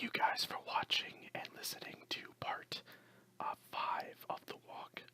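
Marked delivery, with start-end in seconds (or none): none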